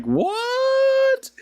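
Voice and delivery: very high, startled what; shocked what. Retold or imitated. Customer reacting to the drive-thru joke with shock. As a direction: squeak it out in disbelief. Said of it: "the lady was like".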